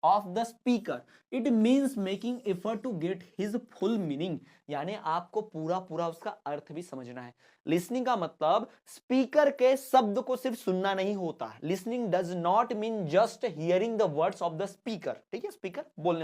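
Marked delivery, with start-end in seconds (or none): 0.1-4.4 slow, word-by-word reading; slow classroom dictation; dictation pace. Shown as a demonstration. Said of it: "dictation of definition". 11.6-15.1 slow, word-by-word reading; slow classroom dictation; dictation pace. Shown as a demonstration. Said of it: "dictation of definition".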